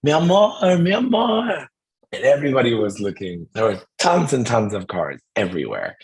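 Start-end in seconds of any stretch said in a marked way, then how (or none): 0.0-1.7 high, loud lovestruck scream. Retold or imitated. Woman yelling for her sweetheart at the airport, screaming. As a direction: call out to a lover across a crowd. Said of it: "I was screaming".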